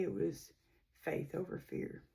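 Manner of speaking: faith over fear whispered, voice nearly gone; emotional whisper. Real, not acted. Remembering her late sister's words, emotional whisper. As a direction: barely breathe it out, moved. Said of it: "I get emotional when I talk about my little sister".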